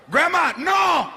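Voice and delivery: stretched out no. Acted. Grandmother saying no.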